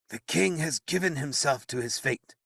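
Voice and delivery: wizard to the paralyzed knight, resigned. Acted. Merlin voiced in narration.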